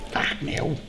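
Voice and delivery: breathy whispered swear; whispered curse. Real, not acted. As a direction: whisper it in dismay. Plan ruined, muttered curse.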